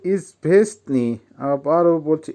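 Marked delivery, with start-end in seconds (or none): 0.0-1.2 ইজভেসনি broken up as ইজ-ভেস-নি; careful pronunciation demo. Shown as a demonstration. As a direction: say ইজভেসনি syllable by syllable. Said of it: "উচ্চারণ হবে". (ইজভেসনি ভেঙে স্পষ্ট উচ্চারণ)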